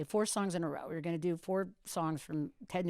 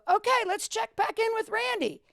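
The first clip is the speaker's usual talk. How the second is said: radio host voice; 4 dB louder than usual. Retold or imitated. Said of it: "And I go".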